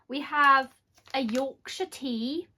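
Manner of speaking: put-on a slow, half-hearted Yorkshire accent; a quick playful stab at Yorkshire, drawn out a touch; light mock Yorkshire accent.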